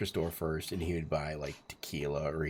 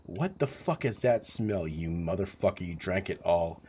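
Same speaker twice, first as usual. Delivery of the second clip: retold outburst; 4 dB louder than usual. Friend discovers him drunk in car.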